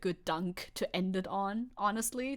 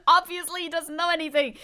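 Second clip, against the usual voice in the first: laughing, louder and higher; 8 semitones higher, 7 dB louder than usual. Real, not acted. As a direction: laugh through the repeated line. Laughing, repeating the mockery.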